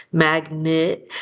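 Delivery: "Magnet" with the e weakened toward a short i; schwa in magnet. Shown as a demonstration. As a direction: say "Magnet" as MAG-nit. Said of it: "sounds a little bit almost like an I".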